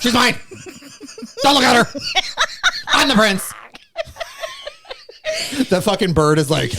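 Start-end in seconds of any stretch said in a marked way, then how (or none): 0.0-3.5 mock-aggressive royal bellow; aggressive, possessive. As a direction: shout like a jealous prince warning off rivals. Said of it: "getting more aggressive".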